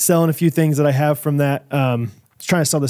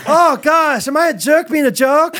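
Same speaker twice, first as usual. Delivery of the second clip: high, giggling mock worry; laughing; 10 semitones higher than usual. Real, not acted. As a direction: squeal it through laughter. Laughing mock self-doubt.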